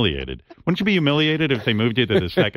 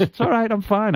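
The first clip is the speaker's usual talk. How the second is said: J B Smoove impression; 11 semitones higher than usual. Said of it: "He goes".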